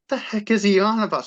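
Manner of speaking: high-pitched, incredulous question; retold bewilderment, pitched right up; baffled. Son wondering what Dad means, baffled.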